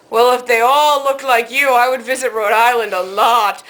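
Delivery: slow, lightly imitated Italian accent. Italian counterman flirts with customer, slow imitated Italian accent. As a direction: flatter slowly with a hint of Italian accent. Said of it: "in this very thick Italian accent".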